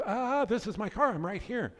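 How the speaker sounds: high, laughing disbelief; mock-indignant, laughing it off; a mom waving at the meter maid, high laughing protest. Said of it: "She goes".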